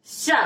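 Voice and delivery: सा as an isolated palatal "sha"; palatal sibilant demo. Shown as a demonstration. Teacher shows where sound forms, सा as palatal "sha". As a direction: say सा with tongue against palate. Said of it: "देखिए आप सा बोल रहे हैं".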